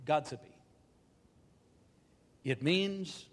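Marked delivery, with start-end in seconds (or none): 0.1-0.5 "godsipy" run quickly together, stressed on the first syllable; quick, first-syllable accent. Shown as a demonstration. Speaker demonstrating the Anglo-Saxon word "godsipy", quick with first-syllable accent. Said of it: "pronounced very quickly with the accent on the first syllable".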